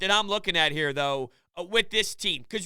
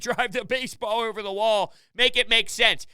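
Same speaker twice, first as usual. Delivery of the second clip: ordinary talk, nothing marked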